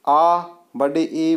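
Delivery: आ and बड़ी ई drawn out slowly; long vowel demo. Shown as a demonstration. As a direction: hold आ and बड़ी ई for double length. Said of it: "दो मात्रा का समय लगे". (आ और बड़ी ई को खींचकर धीरे बोलें)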